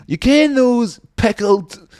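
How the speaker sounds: put-on high, slow, slurring Scottish drunk; drunk guy voice. Mimicking a drunk describing pickled shrimp. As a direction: ham up the jakey's weird craving. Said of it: "And he was like".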